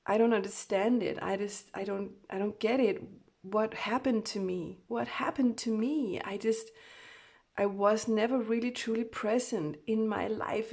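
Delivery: bewildered, emphatic pleading; distressed channelled voice. Acted. Reader voicing the Divine Masculine's confusion, distressed. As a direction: demand an answer, upset and shaken. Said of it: "they're saying".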